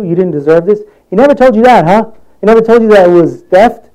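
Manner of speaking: Judge Judy. Acted. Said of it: "what's that judge, this lady, Judge Ju-, Judy?".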